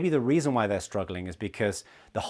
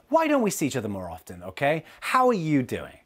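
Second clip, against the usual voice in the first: overdoing it; 3 semitones higher than usual. Retold or imitated. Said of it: "just overdoing it".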